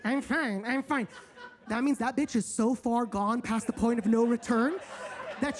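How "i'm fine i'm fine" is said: that tone. Retold or imitated. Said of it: "in that tone".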